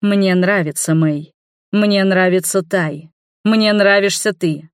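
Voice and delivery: slow, steady and calm. Acted. Keitashi calmly answers the jealous mother, very calm. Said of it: "очень спокойно сказал он".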